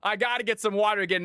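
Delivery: winded after dancing; panting between words; out of breath. Real, not acted. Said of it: "I am obviously out of breath".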